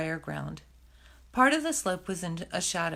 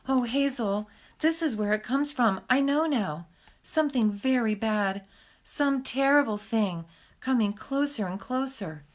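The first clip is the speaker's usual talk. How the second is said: whimpering with fear; 4 semitones higher than usual. Acted. Frightened Fiver warns Hazel of something terrible coming, whimpering with fear. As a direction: plead it as if the danger is already creeping near. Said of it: "He began to whimper with fear".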